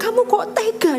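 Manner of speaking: hurt reproach. Retold or imitated. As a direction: act out a wife's hurt accusation. Istri memprotes suaminya dengan terluka. (protes istri yang terluka, ditirukan)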